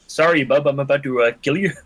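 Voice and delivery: a polite Canadian Wolverine, lightly voiced; terrible Canadian accent. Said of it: "My terrible Canadian accent".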